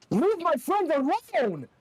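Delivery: very high, loud, slow roar of a protective creature; creature yell. Acted. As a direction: bellow it out to defend your friends. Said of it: "Doraemon yells".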